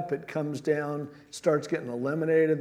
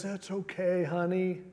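a soft, coddling "there there" from God; hammed-up gentle comfort, quieter; mock tender; 3 semitones higher, 4 dB quieter than usual. God coddling the whining Joshua, mock tender and soft. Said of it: "Not exactly".

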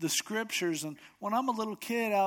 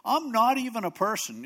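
higher, louder wail of self-pity; mock despair; 6 semitones higher, 6 dB louder than usual. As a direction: overplay the hopeless complaint.

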